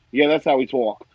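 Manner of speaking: put-on light Brooklyn accent; casual Brooklyn imitation. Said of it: "my friend Aaron lives in, I believe, Brooklyn".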